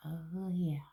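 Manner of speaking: soft whispered approval. Real, not acted. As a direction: breathe it out in a whisper. Admiring lipstick colour.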